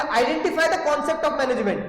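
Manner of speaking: very slow, reading out the exam question. Shown as a demonstration. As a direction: spell out each word of the exam line. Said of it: "question में पता है क्या लिखा मिलेगा". (परीक्षा का प्रश्न धीरे-धीरे पढ़ते हुए)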